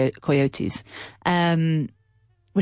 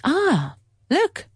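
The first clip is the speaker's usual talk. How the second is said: high, rising call of surprise; pointing it out, voice jumping up; excited stranger; 10 semitones higher than usual. Retold or imitated. Man beside them spotting the moose, high and excited. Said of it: "the man in front of us was like".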